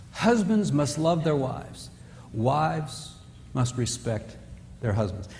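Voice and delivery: slow, weighty, deliberate; slow emphasis. Shown as a demonstration. Preacher stressing the verse to the congregation, slow and weighty. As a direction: lay down each word slowly. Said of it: "slow emphatic recitation".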